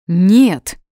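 loud, startled no; startled shout. A narrator's reading. Boy reacting to flying sock tale, shouting. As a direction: blurt it out at full volume, aghast. Boy chokes at an absurd question.

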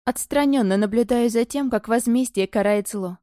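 ordinary delivery

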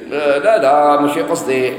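mock flustered backpedalling, drawn out; stretched, hesitant denial in imitation; flustered stammer. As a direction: imitate someone caught out and stumbling. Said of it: "بدا يتلعثم".

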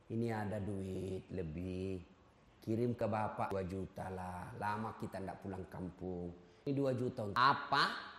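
meek husband asking wife. Retold or imitated. Husband asks wife, voiced low.

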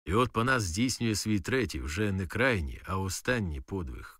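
usual speaking voice

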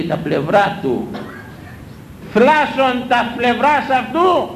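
slow, solemn scriptural recitation; slow solemn church intoning; intoned scripture. Acted. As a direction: chant the verse slowly like a reading in church. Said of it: "Το λέει".

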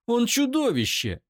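high, loud scream; furious scream. Acted. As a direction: spit out the verdict. Eira screams at him.

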